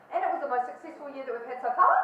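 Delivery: business statement with "so far" lifted like a question; loud, with the pitch climbing on "so far"; rising inflection. Shown as a demonstration. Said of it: "making a statement about".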